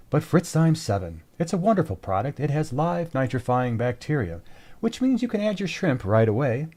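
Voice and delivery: lightly voiced radio announcer. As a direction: read it like a radio ad, understated. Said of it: "I'm going to use my radio voice".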